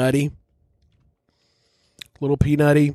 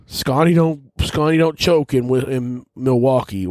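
higher-pitched mock fan taunt; mocking fans' boast; 4 semitones higher than usual.

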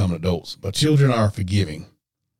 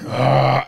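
short, louder groan of pent-up anger; frustrated growl; 3 semitones higher, 5 dB louder than usual. Acted. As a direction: let out an exasperated "uh". Acts out urge to scream.

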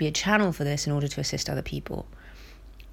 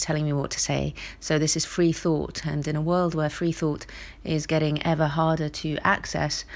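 rough, gravelly cold voice. Real, not acted. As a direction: speak through a scratchy throat. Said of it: "excuse my gravelly voice".

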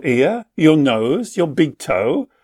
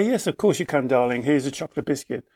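put-on softer, doting yes to the child; indulgent parent; 3 semitones lower, 6 dB quieter, faster than usual. Parent indulging the child's biscuit request, soft and doting. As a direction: give in sweetly, like a fond parent.

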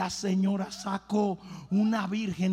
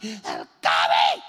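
"el covid" dropped very low and drawn out slowly, booming; mock dread; 4 dB louder, much slower than usual. Shown as a demonstration. Preacher mocks people's fear of covid, deep slow boom.

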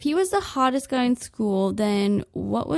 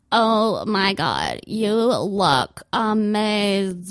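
slow, gushing shop clerk; mock the fawning saleswoman; gushing sales associate; 2 semitones lower, much slower than usual. Sales associate gushing over a customer, slow and fawning. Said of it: "the sales associate would be like".

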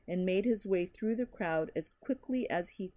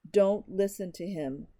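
icy cold; 4 dB louder than usual. Acted. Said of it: "a sheet of ice".

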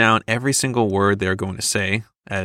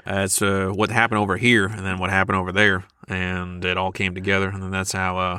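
lightly voiced Southern sleuth; Southern detective; 2 semitones lower than usual. Host imitates a murder-mystery detective, Southern. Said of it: "Almost like a Knives Out".

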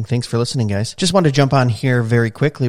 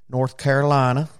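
North Carolina accent. Shown as a demonstration. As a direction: try a hammy North Carolina accent, badly. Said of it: "That's probably a horrible accent".

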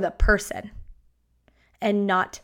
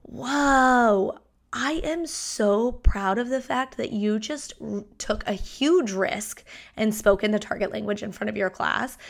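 proud teacher. Shown as a demonstration. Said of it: "it could look like".

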